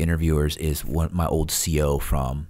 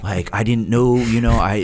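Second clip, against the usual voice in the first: sheepish apology; 4 semitones higher than usual. Retold or imitated. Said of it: "see their attitude completely like".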